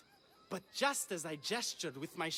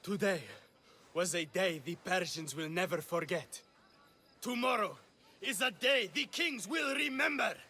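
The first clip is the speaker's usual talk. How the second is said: recited line. Acted. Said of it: "when you confront the traitor".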